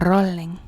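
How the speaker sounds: loud long trill starting "Rolling"; drawn-out rolling R on "Rolling"; rolled R. Shown as a demonstration. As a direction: hit "Rolling" with a hard trilled R. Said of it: "rolling my R's".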